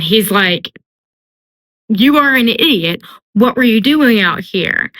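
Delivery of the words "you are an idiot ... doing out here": exasperated telling-off, pitched up; mock scolding. Tamlin scolding Feyre after saving her, mock exasperated. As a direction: scold with mild, acted exasperation.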